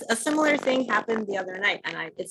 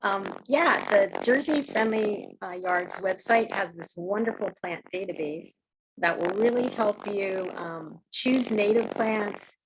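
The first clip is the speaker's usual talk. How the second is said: vibrating voice. Real, not acted. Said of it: "your voice is vibrating or something".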